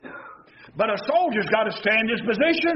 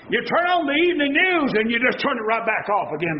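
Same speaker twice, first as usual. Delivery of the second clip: preaching shout; 3 semitones higher than usual. Real, not acted.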